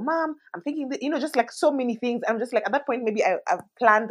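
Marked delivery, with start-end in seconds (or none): 0.0-2.2 put-on high little-kid voice; toddler stalling. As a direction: stall bedtime like a chatty toddler.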